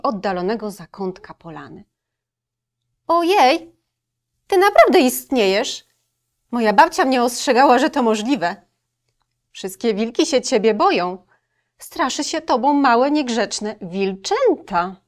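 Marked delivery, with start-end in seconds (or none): 3.1-15.0 louder, higher frightened wolf. Acted. Wolf frightened of the girl, a hammed-up fearful cry. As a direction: gasp it out like a scared wolf. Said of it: "przerażony głos".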